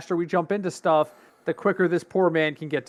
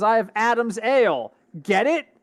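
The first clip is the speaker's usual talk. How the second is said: smug punchline; 6 semitones higher than usual. Retold or imitated. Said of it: "He goes".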